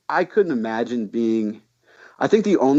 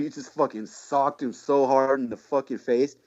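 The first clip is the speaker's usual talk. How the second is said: ordinary delivery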